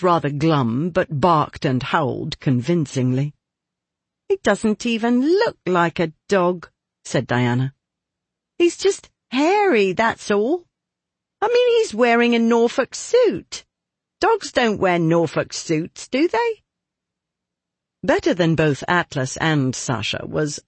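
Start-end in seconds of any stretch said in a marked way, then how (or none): 4.3-6.7 put-on higher, scornful young girl. Diana's scornful remark. 8.6-16.6 put-on much higher, scoffing girl voice; scornful young girl. Diana mocking the dog boy.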